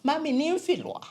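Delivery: mild retold sob to mom; pleading mother. Daughter in her mother's lap after failing, mildly tearful plea.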